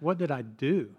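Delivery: mildly pained, retold child's question; a touch of hurt, lightly imitated; tearful question. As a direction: ask it like a hurt child, understated. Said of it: "began to cry and asked".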